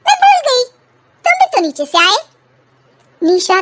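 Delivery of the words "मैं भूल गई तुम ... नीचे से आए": higher, pointed lecture to husband; mock-indignant wife. Wife to husband, higher taunting reproach. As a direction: turn his own habit back on him.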